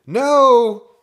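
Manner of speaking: very high, loud drawn-out no; high panicked scream; terrified shout. A narrator's reading. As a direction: yell it in horror. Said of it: "Drew shouted".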